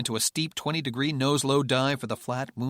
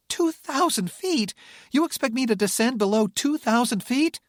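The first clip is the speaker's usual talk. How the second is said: incredulous shout; 13 semitones higher, 6 dB louder than usual. Acted. Rebecca incredulous.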